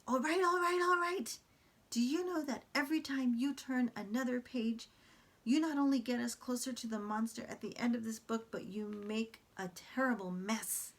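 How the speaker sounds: high, loud, fed-up monster; exasperated Grover. Acted. Grover exasperated at the mess the reader makes, high and loud. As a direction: throw up your hands at the reader. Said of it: "He says".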